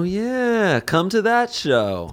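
high, drawn-out cheer; mock hype. Co-host plugging the improv show, drawn-out hype. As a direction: stretch it out high like a hype man.

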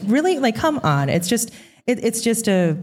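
high, disbelieving; can't believe it; incredulous. Real, not acted. Incredulous at the leap.

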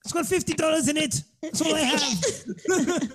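half-laughing mock robbery victim; mock surrender. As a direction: pretend plea while handing over a wallet. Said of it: "give his wallet up and say".

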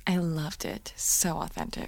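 soft whispered tenderness; intimate whisper. Acted.

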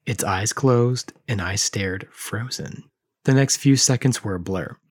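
measured, dramatic reading of a creepy tale; story narration. A narrator's reading. Host reads creepy Furby story aloud, dramatic narration. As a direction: read it like a campfire horror story.

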